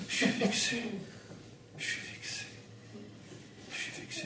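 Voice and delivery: whispered, hurt little "je suis vexé"; mock whining whisper of someone who's offended; sulky whisper. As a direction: pout it under your breath like a wounded ego. Imitating an offended person sulking.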